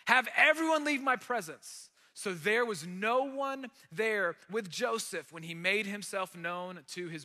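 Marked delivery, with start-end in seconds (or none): 0.1-1.9 loud, raised command; cried out. A narrator's reading. Joseph ordering his attendants out, loud. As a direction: clear the room, voice raised. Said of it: "he cried out".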